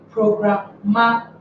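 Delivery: programmatic with MA stressed, the syllable before tic; programmatic, weight on the next-to-last syllable; stress on second-last syllable. Shown as a demonstration. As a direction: lean on "ma" in programmatic. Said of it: "second to the last here is".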